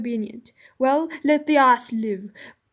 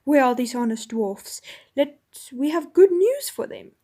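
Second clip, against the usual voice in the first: louder, rousing kingly voice; rally them at full voice; 4 dB louder than usual. Acted. King exultant after hours of whispering, loud and rousing. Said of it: "this time not in a whisper".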